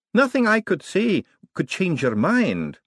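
put-on high, slow old academic voice; put-on elderly wizard, drawn out. A narrator's reading. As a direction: plead gently as an old professor. Elderly wizard coaxing Adora Bell.

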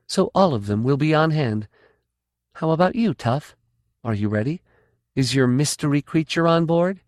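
crisp command voice; Kafira Kay. Acted.

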